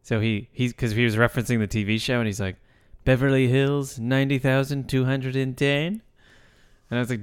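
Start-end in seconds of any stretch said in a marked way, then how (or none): 3.1-6.0 "ninety thousand two hundred and ten" spelled out, "ten" stretched and rising; zip read as number. Retold or imitated. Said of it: "as if they were actual numbers".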